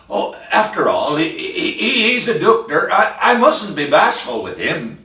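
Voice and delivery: a mildly faltering, stammering nervous woman. Acted. Missus steels herself before the surgeon's door, mild nervous stammer. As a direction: stammer as if working up courage. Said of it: "she trembles in every limb".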